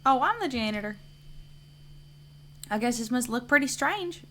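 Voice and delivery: lightly voiced chatty janitor telling his story; hint of a folksy caretaker character.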